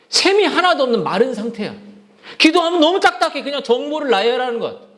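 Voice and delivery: high-pitched, urgent sermon delivery; insistent preacher's exhortation; impassioned preaching. Real, not acted. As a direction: press the point home to the congregation.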